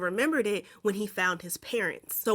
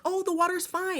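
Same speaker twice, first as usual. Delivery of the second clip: mock dumb voice; 9 semitones higher than usual. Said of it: "And it's like".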